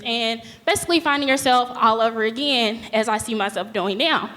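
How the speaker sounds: nervous, slightly shaky voice. Real, not acted. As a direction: voice wobbling with nerves while speaking. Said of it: "I'm sorry, my voice, voice is, like, really shaky".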